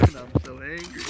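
laughing, breathy, claiming anger; half-laughing fake fury; mock angry laugh. Real, not acted. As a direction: laugh it off while claiming rage. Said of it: "you can hear it in my tone".

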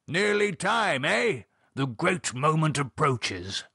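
high eh, then slow grandeur; hearty Gerald. Acted. Gerald anticipating the great moment, grandly jovial. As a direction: announce it with plummy relish.

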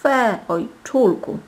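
high, loud, slow wail of disgust; close to tears. A narrator's reading. Princess disappointed by the rose, close to tears. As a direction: draw out a tearful protest to daddy. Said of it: "była bliska płaczu".

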